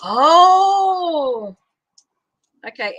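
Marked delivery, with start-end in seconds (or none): 0.1-1.6 sudden loud high gasp of surprise; surprised oh. Real, not acted. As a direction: caught off guard by the card, a loud high Oh. Sudden surprise at drawn card.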